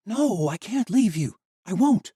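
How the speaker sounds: high, loud, slow tearful refusal; a girl refusing to leave her dying friend; desperate refusal. Acted. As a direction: refuse through tears.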